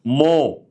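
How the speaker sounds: "مو" as an isolated, held mo; syllable model. Shown as a demonstration. Teacher drills M endings, "مو" held as a clear mo. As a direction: sound out "مو" on its own, long o. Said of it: "هتقول هنا ايه؟".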